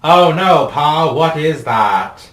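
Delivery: high, loud cry to Pa; theatrical high-pitched shock; alarmed exclamation. Acted. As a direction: call out in hammed-up alarm. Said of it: "He exclaimed".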